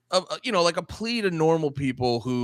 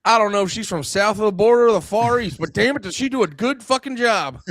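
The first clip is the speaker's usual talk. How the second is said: mock congressman; 3 semitones higher, 4 dB louder than usual. Mocking congressman's take on colleague.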